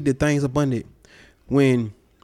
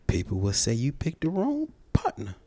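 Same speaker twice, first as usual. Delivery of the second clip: sarcastic; 3 semitones lower than usual. Real, not acted. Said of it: "He's being sarcastic right now".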